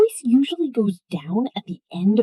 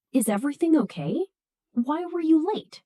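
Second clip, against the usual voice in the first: quicker start, higher, softer and gentle; kinder; 4 semitones higher, 3 dB quieter, faster than usual. Shown as a demonstration. Teacher demonstrating the kinder, caring version. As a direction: show you care as you ask. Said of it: "sounds kinder".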